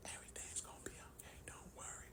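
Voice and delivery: quick, voiceless reassurance; whispering. Retold or imitated. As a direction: imitate a wife whispering not to worry. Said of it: "all this whispering".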